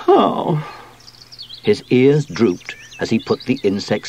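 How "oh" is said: high, deflated little sigh; disappointed sigh. A narrator's reading. Sweep gives up on the insect spray, sighing. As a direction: sigh out a single sound, let down. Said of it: "Sweep sighed".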